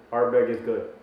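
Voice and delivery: hammed-up Scottish accent, self-mocking; terrible Scottish accent. Master distiller praising Ardbeg, in a terrible Scottish accent. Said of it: "That is a terrible Scottish accent".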